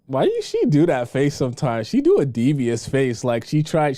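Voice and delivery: ordinary talk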